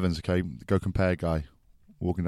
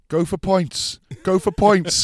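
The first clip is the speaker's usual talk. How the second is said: high, loud urging shout; high loud shout across the pitch to go for points; 11 semitones higher, 5 dB louder, slower than usual. Retold or imitated. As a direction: yell it at the captain from the pitch. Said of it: "were shouting".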